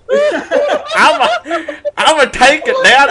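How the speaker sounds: loud, high mock American, laughing; hammed-up American accent breaking into laughter. Shown as a demonstration. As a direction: play a caricature American through laughs. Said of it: "can you do an American accent".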